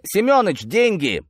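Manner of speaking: high-pitched call to a colleague. Acted. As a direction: holler for a partner's attention. Sergeant calls out to colleague.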